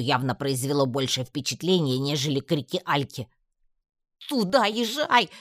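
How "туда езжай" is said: much higher, louder, slow furious shout; frantic command. A narrator's reading. Татьяна rages at Градук to ride there, frantic shout. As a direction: yell him toward the tent. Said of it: "бесновалась я".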